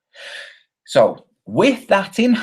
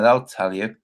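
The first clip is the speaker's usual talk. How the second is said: usual speaking voice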